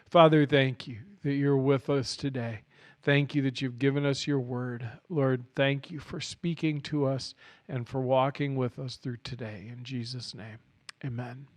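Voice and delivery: gentle, fading closing prayer. Real, not acted.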